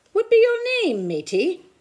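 high, loud pirate bark; pirate question. A narrator's reading. Head pirate asks the boy his name: loud pirate bark. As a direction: call it out like a swaggering pirate. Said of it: "the head pirate asked".

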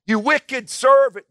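loud, high, drawn-out royal roar. Acted. King condemning his wicked servant, roaring. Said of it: "the king roared".

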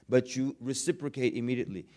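normal talking voice

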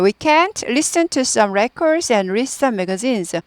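very slow, each word clear; slow dictation-style reading; slow model sentence. Shown as a demonstration. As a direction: read the full sentence slowly for learners. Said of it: "뭐예요".

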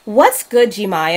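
hint of a valley girl voice; lightly put-on white girl voice. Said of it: "Why are you talking like that?".

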